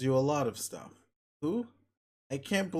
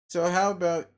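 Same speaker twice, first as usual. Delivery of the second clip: exasperated; 5 semitones higher, 7 dB louder than usual. Real, not acted. Exasperated interruption.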